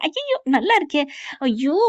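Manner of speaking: high-pitched delighted exclamation; delighted squeal. Acted. Friends picture the romantic moment, delighted squeal. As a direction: squeal it at the imagined scene. Listeners react delightedly to imagined scene.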